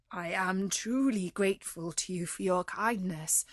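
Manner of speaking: frightened, humble appeal; terrified pleading. Acted. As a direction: plead for mercy from the beast.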